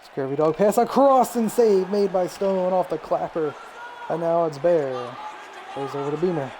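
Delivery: steady running hockey call, picking up on shots; sportscaster calling the puck; play-by-play commentary. Acted. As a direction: call the game like a TV announcer.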